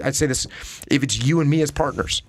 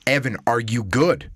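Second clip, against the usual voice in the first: calm check-in. Retold or imitated. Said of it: "Instead I say".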